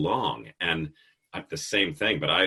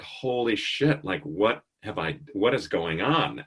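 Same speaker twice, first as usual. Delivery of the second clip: stunned disbelief; 3 semitones higher, slower than usual. Retold or imitated. Alone on the terrace in tears, slow stunned disbelief. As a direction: drag it out in shock.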